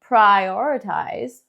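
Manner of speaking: "Prioritize" still slow, flap r; slow model of "Prioritize"; slow practice take. Shown as a demonstration. Teacher practicing the stretched version, slow. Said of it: "luego ya lo hacemos chiquitito".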